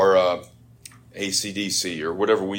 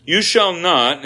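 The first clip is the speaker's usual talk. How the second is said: "You shall not" high and loud, stress on "shall"; emphatic command; 8 semitones higher, 6 dB louder, slower than usual. Shown as a demonstration. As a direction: hit "shall" like a verdict. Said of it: "The stakes are every bit as awful".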